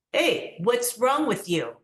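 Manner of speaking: high, loud schoolyard jeering; mock the foreign kid like a gang of bullies; taunting bullies. Schoolyard bullies taunting the foreign boy, loud high jeering. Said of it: "so what does this sound like?".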